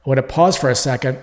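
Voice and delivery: ordinary talk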